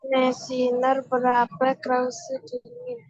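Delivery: stuttering dropouts in the audio; speech chopped up by buffering; broken-up voice. Real, not acted. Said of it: "Patah-patah suaranya".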